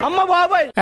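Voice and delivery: shocked yelp. Acted. Boy yelps in comic alarm at the threat, high squeak.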